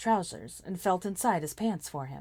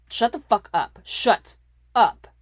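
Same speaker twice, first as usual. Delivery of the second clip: angry shout; 6 semitones higher, 13 dB louder, slower than usual. A narrator's reading. Draco shouting her down.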